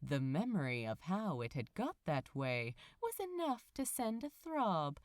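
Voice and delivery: a lightly read bedtime-story voice; story narration. A narrator's reading. Reader telling listeners a cozy morning tale, story narration. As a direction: tell it gently, like a cozy fairy tale. Reads the fic aloud.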